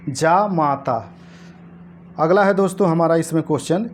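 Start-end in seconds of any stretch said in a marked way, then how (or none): 0.1-1.1 जा माता said slowly, lower, long open आ in जा; slow correct form. Shown as a demonstration. Teacher to exam students, slowly stressing the correct जा माता. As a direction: give जा माता slowly so the long vowel is heard. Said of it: "जा माता होता है".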